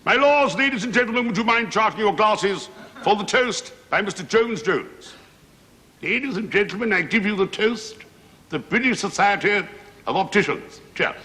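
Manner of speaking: high-pitched ceremonial dinner toast; pompous toastmaster up in a high register. Acted. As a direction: announce the toast in a high, formal voice. Toastmaster at opticians' annual dinner.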